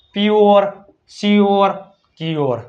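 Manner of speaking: પ્યોર, સ્યોર, ક્યોર with a stretched "or" ending; demonstrating "ઓર" ending. Shown as a demonstration. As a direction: say પ્યોર, સ્યોર, ક્યોર one by one, drawing out "-yor". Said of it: "શું ઉચ્ચાર થાય". ("ઓર" લંબાવીને પ્યોર, સ્યોર, ક્યોર)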